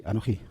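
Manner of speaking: "anoji" with the accent on final "ji"; stress on last syllable. Shown as a demonstration. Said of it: "Es la última sílaba donde recae el acento".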